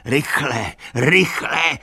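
urgent shouting. A narrator's reading. Benjamin urges the animals to hurry, urgent shouting. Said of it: "křičel".

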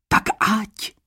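high teasing shout; mischievous cry. Acted. Lead maiden shouting back teasingly at Adam. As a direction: toss it back playfully, not caring. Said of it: "vykřikla rozpustile".

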